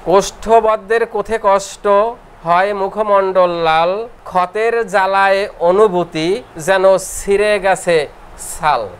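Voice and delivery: drawn-out chanted rhyme, every word stretched; slow verse recitation. Acted. Teacher chanting a rhyme to students, slow and sing-song. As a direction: recite it like a memory verse for the class.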